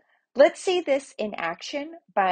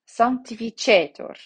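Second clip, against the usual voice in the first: "Sanctificetur" with CHE punched louder, then falling; stress on penultimate; 3 semitones higher, 5 dB louder than usual. Shown as a demonstration. Teacher showing where the accent falls, "Sanctificetur" stressed on CHE. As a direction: hit the long CHE in "Sanctificetur". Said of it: "on the penultimate".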